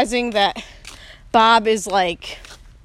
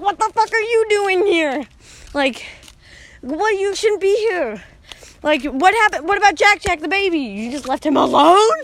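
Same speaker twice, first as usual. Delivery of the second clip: high, hammed-up outraged mom; panicked mother impression; 7 semitones higher, 3 dB louder than usual. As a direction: scold the kids in a raised, disbelieving pitch. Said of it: "That's my best impression of that sentence".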